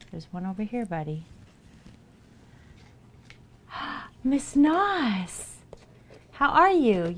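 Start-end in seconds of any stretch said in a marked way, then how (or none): 4.2-7.1 high, loud hello; light up at a friend; much higher, louder welcome; excited greeting. Real, not acted. Greeting a new chatter.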